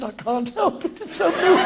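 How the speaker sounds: high, wobbly voice of a weeping man; mock tearful. Co-star explaining why he is crying, mock tearful and high. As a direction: play him blubbing helplessly.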